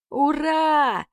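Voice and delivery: радостный возглас; joyful exclamation. Acted. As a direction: burst out with joy at finding the exit. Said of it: "воскликнул богатырь".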